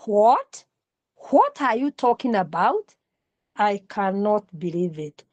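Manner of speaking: loud disbelief dropping to soft. Shown as a demonstration. Teacher showing volume change to students, loud to soft. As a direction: start loud, then let it fall. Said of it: "then volume".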